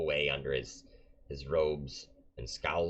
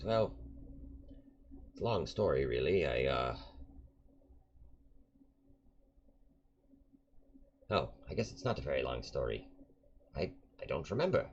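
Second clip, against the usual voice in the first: put-on rambling old man; 2 semitones lower, 3 dB quieter than usual. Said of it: "He says".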